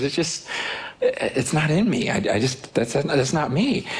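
halting, reluctant mom retold. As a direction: hedge with false starts and pauses. Mom voiced declining to adopt.

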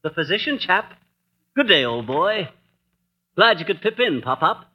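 hammed-up posh British gent; a light put-on English accent; mock English accent. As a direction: play the jolly English squire, lightly. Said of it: "this Bond Street brogue".

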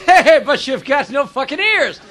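blunt Irishman, drawn out; slow, blurted remark with an Irish lilt; Irish accent. Acted. Irish job applicant answers the earless interviewer, blunt Irish accent. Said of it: "The Irish guy says".

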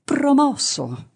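high, very slow, joyful yell; shouted verdict. Acted. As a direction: cry out the pass in triumph. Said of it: "gli urlò di ritorno". (urlo lento e acutissimo di gioia)

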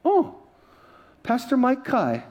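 high, drawn-out mock recognition; lady recognizing him. Airline lady reads the pastor's ID, mock impressed recognition. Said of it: "She looks, Oh".

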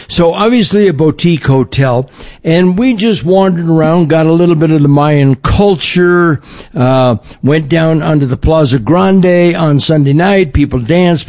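ordinary talk, nothing marked

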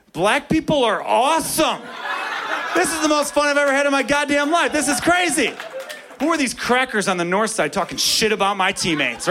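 put-on the kid's overjoyed inner voice; mock elated thought. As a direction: gush with joy. His excited inner thought.

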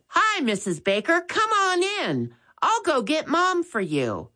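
put-on a young boy reminding his brother; Max's voice. A narrator's reading. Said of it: "they heard Max say".

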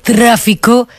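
very slow, suspenseful reporter delivery; Gloria Serra. Acted. Guest imitates the investigation presenter, heavily drawn-out delivery. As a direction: drag out each phrase for mock suspense. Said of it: "Me gusta imitarlo, pero lo hago muy mal".

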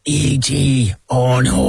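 E.T. impression. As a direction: do a quick go at E.T.'s famous line. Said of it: "do your impression of it".

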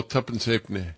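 soft mimicked Yorkshire "tuppence halfpenny"; Yorkshire accent. Host recalling a Leeds market seller, mimicked Yorkshire accent. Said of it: "able to mimic a Yorkshire accent".

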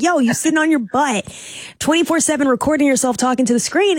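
imitation of a mom calling out her son; frustrated mom. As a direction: lightly voice an exasperated mother. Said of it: "the mom was truly frustrated".

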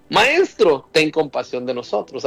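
calling out. Retold or imitated. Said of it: "y gritaban".

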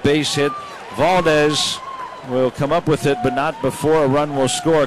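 mildly excited baseball call; live play-by-play. Real, not acted. Announcer calling a two-out RBI single, excited play-by-play. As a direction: lift the pitch as the run scores. Calls a run-scoring hit live.

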